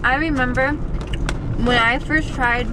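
talking with a mouthful; words round a bite of kale chips; mouth full. Real, not acted. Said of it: "I'm talking with my mouth full".

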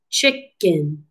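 "Chicken" in two separated beats; "Chicken" broken up for counting syllables. Shown as a demonstration. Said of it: "We're gonna clap it up".

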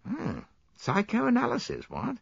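put-on high-pitched, taken-aback young officer; mild alarm. A narrator's reading. Young soldier hears of psychoanalysis, high mildly alarmed voice. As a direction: query it with a touch of alarm. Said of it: "with visible alarm".

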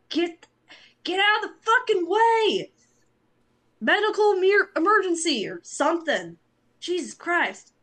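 high, loud angry yell; yelling out window. Pretend. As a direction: shout them off the road. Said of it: "lean out the window and just, like, motion".

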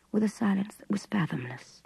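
ordinary delivery

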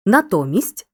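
"Натомість" stressed on то; stress on middle syllable. Shown as a demonstration. Teacher demonstrating compound adverbs, stress on middle ТО. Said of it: "часто наголошують середні склади".

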